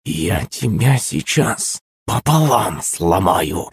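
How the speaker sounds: slow, held-back menace; menacing threat. A narrator's reading. Yulenka stepping toward the girl to break her, menacing. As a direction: grind out the threat slowly.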